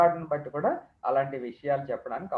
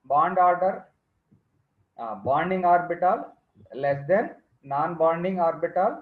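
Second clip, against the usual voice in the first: dictating notes very slowly; slow dictation; 4 dB louder, much slower than usual. Acted. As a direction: read it out for students to write. Dictating energy order.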